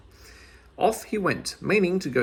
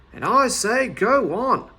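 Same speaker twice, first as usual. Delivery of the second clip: panting; 9 semitones higher, 6 dB louder, slower than usual. A narrator's reading. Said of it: "panted Meddle".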